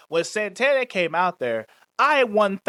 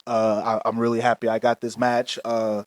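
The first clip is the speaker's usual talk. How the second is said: lower, halting, stumbling promo voice; bumbling wrestler promo; 7 semitones lower than usual. Retold or imitated. Mocking a wrestler fumbling his promo, lower and halting. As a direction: mumble the clichés like a nervous wrestler. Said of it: "What are you gonna say?".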